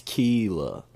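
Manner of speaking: Kayla as drawn-out KEE-la; slow Kayla, first syllable ee. Shown as a demonstration. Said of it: "that main accent says Kayla".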